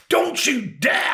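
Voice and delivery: high, drawn-out warning; outraged wife. Retold or imitated. Wife warning husband off the cat, high mock outrage. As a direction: imitate a scandalised wife, stretching each word. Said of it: "my wife went mad".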